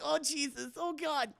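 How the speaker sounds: mock-panicked prayer; mock horror. Sydney seeing the wound, high mock horror. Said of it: "she's like".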